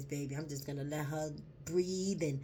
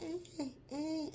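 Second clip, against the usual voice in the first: high newborn wails, lightly mimicked; baby cry imitation; 11 semitones higher, 4 dB quieter than usual. Retelling a birth video, mimicking the newborn's high cry. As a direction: squeak out a tiny baby's cry. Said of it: "the baby cried, like".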